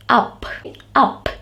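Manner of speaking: "up" with a short uh vowel; short U sound. Shown as a demonstration. Teacher giving an example of short vowels, short U. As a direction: say "up" twice, separately, short uh. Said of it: "these are short sounds of the vowels".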